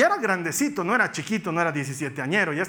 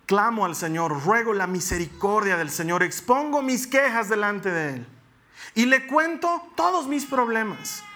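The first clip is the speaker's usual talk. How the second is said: scripture reading. Acted. Reads Psalm 142 aloud.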